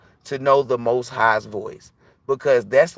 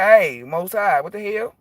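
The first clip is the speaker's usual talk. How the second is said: higher, complaining; exasperated complaint; 7 semitones higher than usual. Retold or imitated. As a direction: protest to the Most High. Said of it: "I was like".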